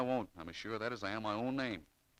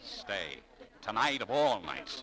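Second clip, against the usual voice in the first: dismayed; 2 semitones higher, 9 dB louder, much slower than usual. Acted. Dismay at having to stay late.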